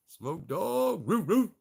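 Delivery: high yelping roo roo; dog howl. Pretend. Calling out to Smoke Dog, howling.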